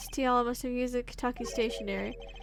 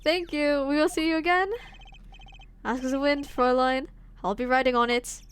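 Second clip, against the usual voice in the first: put-on half-successful German accent; poor German accent. Streamer voicing Gavin's farewell, poor German accent. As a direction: try a German accent and not quite get it. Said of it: "That's, like, not even a good accent".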